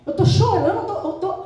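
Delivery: indignant complaint to God, a touch of laughter; playful exasperated whine; mock tearful protest. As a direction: protest as if put upon, pitch rising. Acting her tearful protest to God.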